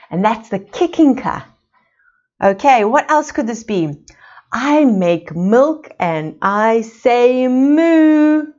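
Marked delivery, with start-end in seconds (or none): 4.5-8.5 slow riddle voice. Pretend.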